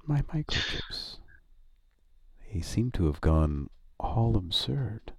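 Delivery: slow, soft, hushed robot voice; Patrick Stewart robot. Acted. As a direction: breathe it out slowly. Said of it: "do the voice of the robot".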